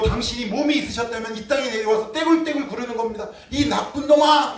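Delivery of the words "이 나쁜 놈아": high, loud, drawn-out cry of God's anguish; acted outcry. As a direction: cry out as a wronged, jealous God. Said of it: "이렇게 외치는 거예요". (높고 크게 길게 외치는 연기)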